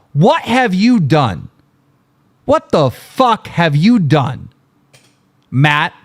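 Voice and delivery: slow, punching each word of the demand; angry demand. Real, not acted. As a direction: hammer the question at him slowly. Demanding answer from critic.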